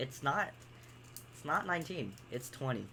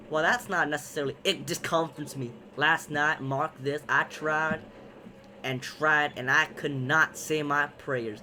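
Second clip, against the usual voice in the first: louder, lightly acted stage voice; play character; 5 dB louder than usual. Husband confessing he could not pray, lightly acted character. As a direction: declaim it as a troubled husband.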